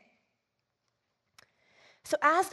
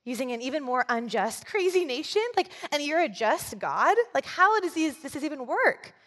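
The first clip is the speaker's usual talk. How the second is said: incredulous protest; 3 semitones higher than usual. Retold or imitated. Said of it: "I can imagine him just thinking".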